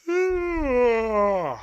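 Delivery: long high anguished groan; loud groaning sigh. Real, not acted. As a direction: groan in despair. Team losing badly.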